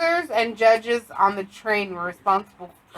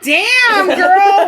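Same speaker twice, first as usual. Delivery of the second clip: excited exclamation; 9 semitones higher, 8 dB louder than usual. Retold or imitated. Excited reaction to sultry voice.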